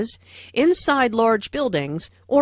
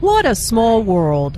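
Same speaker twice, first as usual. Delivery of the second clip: delighted surprise; 6 dB louder, slower than usual. Acted. Surprised meeting.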